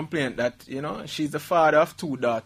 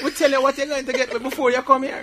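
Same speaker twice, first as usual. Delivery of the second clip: laughing; 10 semitones higher, 8 dB louder than usual. Retold or imitated. Mocking the island's ad.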